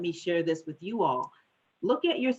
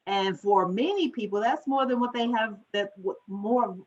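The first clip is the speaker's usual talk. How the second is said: higher-pitched, excited tumble of words; getting excited; 5 semitones higher than usual. Real, not acted. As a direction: get carried away, voice lifting and stumbling. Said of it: "I'm getting excited".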